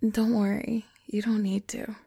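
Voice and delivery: reassuring whisper. Acted.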